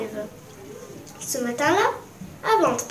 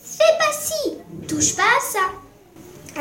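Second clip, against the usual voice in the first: high-pitched bossy sister voice; put-on high voice, telling off; scolding big sister; 3 semitones higher, 4 dB quieter, much slower than usual. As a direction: mimic a nagging older sister. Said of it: "Justine dit toujours".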